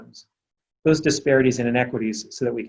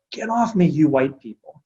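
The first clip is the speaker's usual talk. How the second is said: retold child's yell. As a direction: imitate a little girl's outburst without full volume. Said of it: "finally she yelled".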